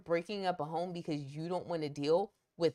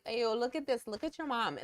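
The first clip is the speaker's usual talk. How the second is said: a half-hearted, bad British accent; lightly put-on British schoolkid accent. Bad British accent from a kid teasing about his mom. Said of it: "that was really bad British accent".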